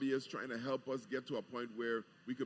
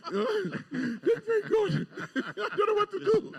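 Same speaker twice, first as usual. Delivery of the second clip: high-pitched laughter breaking through the words; can't stop laughing while trying to talk; laughing hard; 8 dB louder than usual. Real, not acted. Governor laughing at the radio host's teasing.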